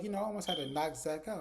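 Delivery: keyed-up, animated brag; hyped up. Retold or imitated. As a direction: imitate a worked-up man. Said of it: "he is super hyped".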